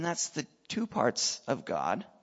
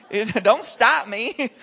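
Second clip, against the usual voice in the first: loud and slow, stretching STOP; emphatic demand; 6 semitones higher, 9 dB louder, much slower than usual. Retold or imitated. Preacher telling the girl to let him finish, loud and slow. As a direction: plant your feet and insist.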